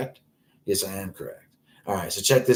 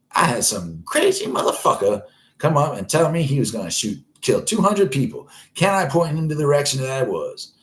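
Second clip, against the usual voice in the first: raised, quick gossip voice; telling friends a wild story, a bit higher; gossiping cashier; 5 semitones higher, 3 dB louder than usual. Retold or imitated. Cashier bragging to friends back home in a lightly higher voice. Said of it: "She like".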